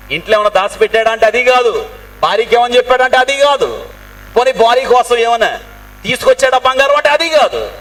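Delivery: high-pitched, insistent rhetorical build; impassioned preaching. Real, not acted. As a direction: hammer each denial home to the congregation. Preacher drives home rhetorical denials.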